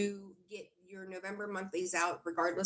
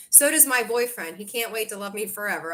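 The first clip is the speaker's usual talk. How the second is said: usual speaking voice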